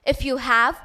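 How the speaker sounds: measured rhyming recital, lifting then dropping each couplet; verse recitation. Acted. Student reciting the Sorting Hat's lines to festival audience, measured recitation. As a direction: declaim the rhyme with clear pauses.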